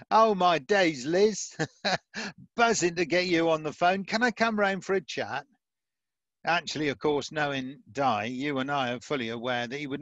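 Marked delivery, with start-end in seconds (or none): 0.1-5.5 mock Cockney phone call, amused and raised in pitch; playful Cockney accent. Imagining Di phoning up the Queen, jokey Cockney accent. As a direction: put on a chummy Cockney, chuckling midway. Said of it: "I can do a Cockney accent".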